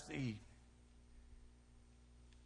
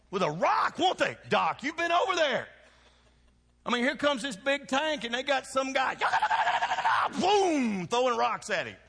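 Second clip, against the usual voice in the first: laughing excitement; 12 semitones higher, 8 dB louder than usual. Real, not acted. Laughing, excited story about tanks.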